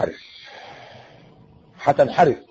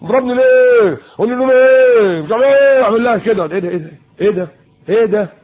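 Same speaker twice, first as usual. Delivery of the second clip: high, loud, bratty yelling; teen yelling at mom; 5 semitones higher, 4 dB louder than usual. Retold or imitated. Teenager shouting at his mother after his father leaves, loud and high. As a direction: snap back at his mother like a spoiled teen. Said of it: "هنخش بقى على امه بقى".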